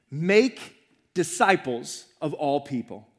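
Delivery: slow, make set apart before disciples; stress on make. Shown as a demonstration. Preacher retelling Jesus' words to his disciples, stress on make. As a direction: lean on make, then spell out disciples of all people slowly. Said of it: "the verb that has the emphasis".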